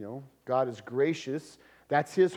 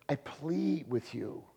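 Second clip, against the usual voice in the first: softly begging, leaning on "plead"; slow, hushed appeal; 7 dB quieter than usual. Retold or imitated. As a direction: imitate a gentle, earnest plea, dropping the volume. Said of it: "He's begging them".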